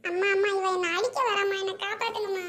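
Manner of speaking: loud plea to mother; alarmed call. Acted. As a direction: call out loudly for protection. Calls mother for rescue from sibling.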